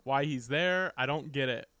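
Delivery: laughing confused viewer. Retold or imitated. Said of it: "they're like".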